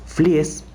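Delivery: Flies said in two syllables, FLEE-es; tentative name pronunciation. Shown as a demonstration. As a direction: sound out both vowels in Flies. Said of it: "creo que se pronuncia así".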